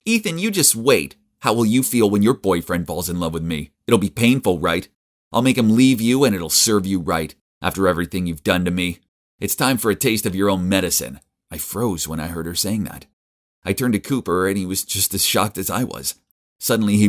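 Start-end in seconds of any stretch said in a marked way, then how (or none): 0.1-11.2 spiteful, louder, threatening; mean tone. Acted. Elliot taunting her sleeping brother, in a mean spiteful tone. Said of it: "She was speaking in a mean tone".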